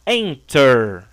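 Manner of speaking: ENTER with EN drawn out and strong; slow ENTER, leaning on EN; stress on first syllable. Shown as a demonstration. Teacher showing the strong first syllable, EN stressed in ENTER. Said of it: "o forte tá no en".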